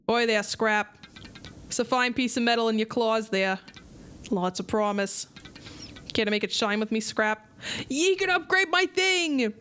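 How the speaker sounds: put-on a light pirate brogue from the old smith; playful hint of a pirate accent. Old blacksmith greets a young fish in a light pirate accent. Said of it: "I gotta drop the accents".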